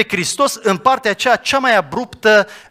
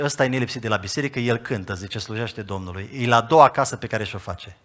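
quiet retold confidence; 8 semitones lower, 6 dB quieter than usual. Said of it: "îmi zice în felul următor".

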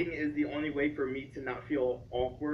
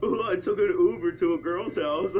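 mocking friend; 3 semitones higher, 5 dB louder than usual. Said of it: "You said this, like, two other times".

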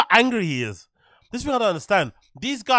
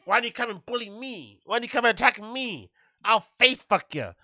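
mock tough-guy taunt, building louder; mocking imitation; 4 semitones higher, 4 dB louder than usual. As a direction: ham up a macho bully threat. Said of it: "It's like, whoa".

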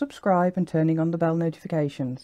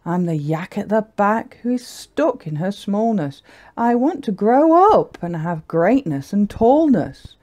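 put-on slightly raised, lilting young yak voice; wistful little yak; 4 semitones higher than usual. Little yak wishing to grow up, wistful. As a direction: voice a small yak's mild longing. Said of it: "she sighed".

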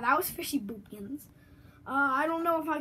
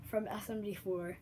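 whisper; 4 semitones lower, 7 dB quieter than usual. Real, not acted. Whispered aside to viewers.

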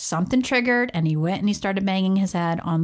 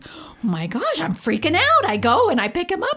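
mock panic; 8 semitones higher than usual. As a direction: play the mother freaking out, pitched up. Voicing the panicked mom.

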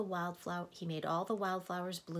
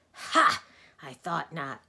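loud triumphant "Ha!"; happy croak; 11 dB louder, slower than usual. Acted. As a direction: bark a gleeful Ha. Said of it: "said the voice happily".

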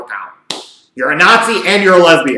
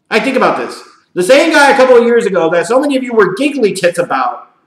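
ordinary talk

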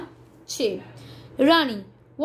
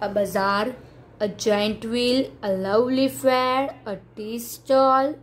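slow, evenly spaced classroom read-out; stretched words with a gap after each; word-list drill; much slower than usual. Shown as a demonstration. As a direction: read each item for pupils to repeat. Reads word list for repeating.

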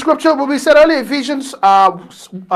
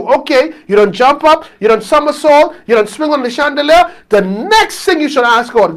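raised, insistent pulpit voice; impassioned preaching; 2 semitones higher than usual. Real, not acted. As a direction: drive each point home to the congregation. Preaches to the congregation.

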